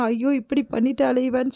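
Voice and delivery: a slow, tearful cry of despair; wailing lament. Retold or imitated. The mother wails over what her daughter has done, slow and tearful. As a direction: draw out the aiyo like mild sobbing. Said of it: "கதறி கதறி அழறாங்க".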